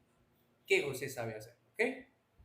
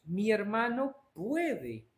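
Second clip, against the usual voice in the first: slow example; much slower than usual. Shown as a demonstration. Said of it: "cómo diríamos".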